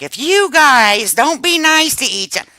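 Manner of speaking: high-pitched imitation of a scolding mother; lightly mock a mom's warning to squabbling kids. Voices mom scolding the siblings.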